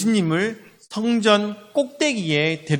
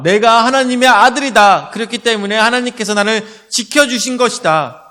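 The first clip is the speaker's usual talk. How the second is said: raised, emphatic public declaration; mock superstar announcing himself loudly; acted proclamation; 4 semitones higher, 5 dB louder than usual. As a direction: proclaim it to a big crowd. Voices a boastful superstar's proclamation.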